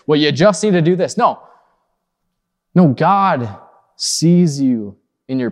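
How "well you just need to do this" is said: dismissive God. Retold or imitated. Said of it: "He's not looking down at you saying".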